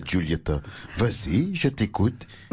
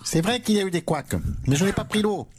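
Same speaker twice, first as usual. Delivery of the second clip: caricatured right-wing politician, duck-like; Eric Ciotti. Acted. Mocked candidate defends himself to host, comic duck-politician voice. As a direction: break down into a quack at the end. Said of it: "le vilain petit canard de la droite".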